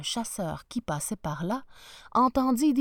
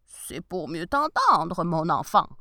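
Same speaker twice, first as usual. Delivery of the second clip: wolf voice; 3 semitones lower, 5 dB louder than usual. Acted. Wolf disguised as grandmother.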